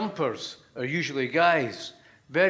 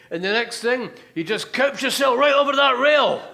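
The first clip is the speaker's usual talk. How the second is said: rising cabbie rant; 2 semitones higher, 4 dB louder than usual. Acted. Cabbie spelling out the cover story, building to loud. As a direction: work yourself up to the last line.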